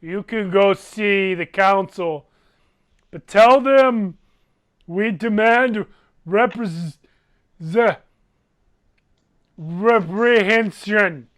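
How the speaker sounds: slow, mildly pompous giant's demand; lightly voiced giant. Giant sending the party to the council, slow mock-solemn demand. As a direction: lay down terms like a dim giant, slowly.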